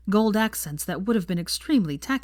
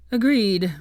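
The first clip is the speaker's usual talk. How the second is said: grim; 4 semitones higher, 6 dB louder than usual. A narrator's reading. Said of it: "said Knott grimly".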